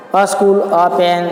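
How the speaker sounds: slow dictation. Shown as a demonstration. Teacher dictating examples.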